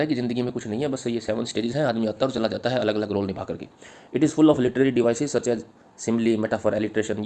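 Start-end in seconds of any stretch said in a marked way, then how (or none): 4.2-7.2 slow, measured dictation pace, each word spaced; slow dictation to the class. Acted. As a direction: read it out slowly so students can write. Dictating answer lines.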